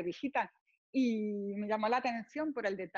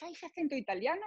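imitating French admirers; 6 semitones higher, faster than usual. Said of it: "entre ellos".

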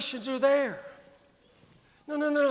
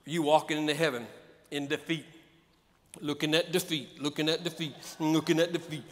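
defeated; 5 semitones lower, 5 dB quieter than usual. Acted. Acting out a defeated walk.

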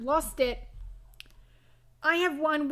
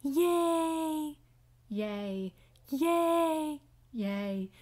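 Fluttershy; much slower than usual. Acted. Two Fluttershys trading yays, drawn-out and sweet. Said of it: "Fluttershy battle between me and Muse".

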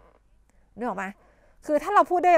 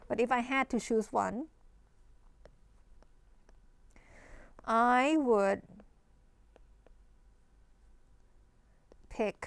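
slow, careful demo sentence; slow model answer; 6 dB quieter, much slower than usual. Shown as a demonstration. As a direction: spell it out slowly for learners. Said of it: "เขาให้เลือกอะไรสักอย่าง". (พูดช้าๆ ชัดๆ เป็นตัวอย่าง)

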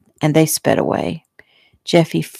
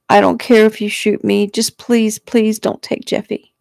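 higher, desperate plea; tearful pleading; 5 semitones higher than usual. A narrator's reading. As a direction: plead as if through tears. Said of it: "Shelley pleaded, tears running down her face".

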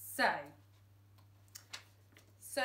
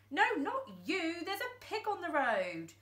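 much higher, urgent; urgent correction; 8 semitones higher, 3 dB louder than usual. Acted. Frank correcting Thumbs in panic, urgent. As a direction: set him straight fast.

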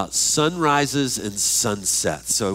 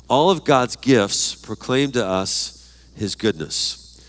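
slow dictation; slower than usual. Shown as a demonstration. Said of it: "next fill in the blank".

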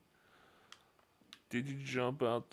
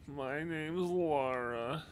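dopey voice. Retold or imitated. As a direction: play it dim and dopey. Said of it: "that dopey voice".

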